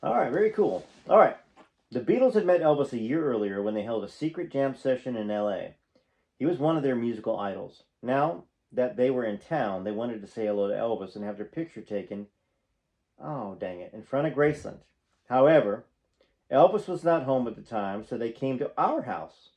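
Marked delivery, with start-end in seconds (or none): 1.9-14.8 reading a memoir aloud, projected and animated; memoir narration. A narrator's reading. Fan reading stories about a singer to viewers, animated narration. 15.3-19.5 reading a memoir aloud, projected and animated; memoir narration. A narrator's reading. Fan reading stories about a singer to viewers, animated narration.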